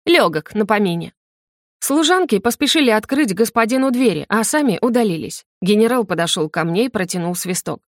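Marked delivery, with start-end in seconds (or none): none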